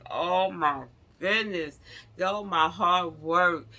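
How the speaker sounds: high, loud, slow wail over lost work; tearful lament. Retold or imitated. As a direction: mourn the tank you built like it's leaving forever. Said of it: "So now I'm in tears".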